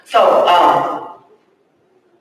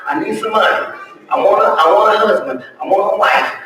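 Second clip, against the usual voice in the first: begging prayer; faster than usual. Retold or imitated. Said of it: "you seeking stuff".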